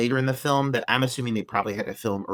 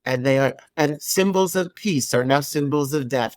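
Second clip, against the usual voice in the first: lightly mimicked lackluster news read; flat monotone reporter. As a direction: read the news without any charisma. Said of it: "with this flat monotone voice being like".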